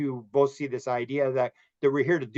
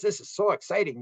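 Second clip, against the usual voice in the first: excited; 6 semitones higher than usual. Retold or imitated. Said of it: "the higher self knows ... and says".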